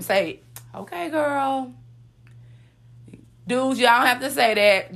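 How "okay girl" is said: put-on sassy okay girl. Shown as a demonstration. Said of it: "Say it with me".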